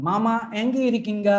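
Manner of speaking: "எங்க இருக்கீங்க?" said fast, with a questioning tune; question intonation. Shown as a demonstration. Teacher showing the class how a question tune sounds. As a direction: call out "Mama, எங்க இருக்கீங்க?" as a quick question. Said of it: "Your intonation tells me whether you are asking questions".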